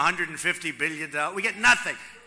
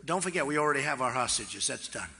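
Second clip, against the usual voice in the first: softened approach; 9 semitones lower, 7 dB quieter than usual. Retold or imitated. Softly reminding the Iran negotiators the hostages are back. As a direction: lower and softer, easygoing and friendly. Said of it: "So I'd go in differently now".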